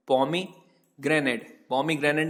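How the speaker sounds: pomegranate stretched out very slowly, each syllable separate, falling at the end; very slow model word. Shown as a demonstration. Teacher models the English word pomegranate for students, very slow and clear. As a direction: spell out pomegranate by sound, very slowly. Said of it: "बोला जाता है pomegranate".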